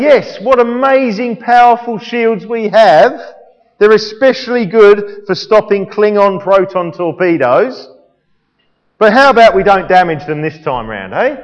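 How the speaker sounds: Kirk. Acted. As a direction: play a touch of absurd pride in the equipment. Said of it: "for Kirk to say".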